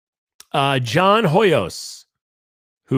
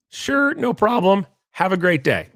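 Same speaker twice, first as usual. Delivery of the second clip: dealership lady ending the call too fast, curt; mock curt sign-off; 6 semitones higher than usual. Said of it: "She didn't say anything else".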